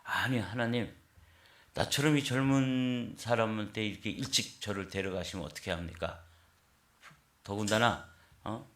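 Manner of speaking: mild mock outrage; retold angry protest. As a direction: protest to God like a wronged young man, half acted. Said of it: "막 화를 냈다는 거예요".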